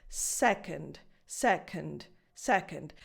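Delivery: "Second" low and falling, gap between k and n filled naturally; schwa demo. Shown as a demonstration. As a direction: repeat "second" evenly with a reduced last vowel. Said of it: "You just fill this gap".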